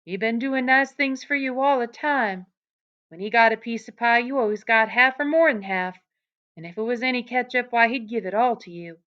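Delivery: Aunt Clara scolding Lenny, mildly voiced. A narrator's reading. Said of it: "she went on in Lenny's voice".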